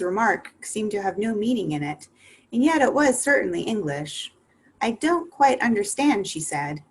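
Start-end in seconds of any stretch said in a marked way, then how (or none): 4.8-6.3 higher, politely puzzled; a polite, puzzled question, higher. Acted. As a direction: ask as politely as possible. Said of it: "as politely as she could".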